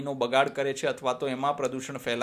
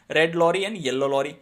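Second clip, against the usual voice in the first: slow and carefully spaced; slow tongue twister; 4 dB louder, much slower than usual. Shown as a demonstration. Teacher models the lorry twister for pupils, slow and clear. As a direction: lay out each word for pupils to copy. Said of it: "Speak them repeatedly".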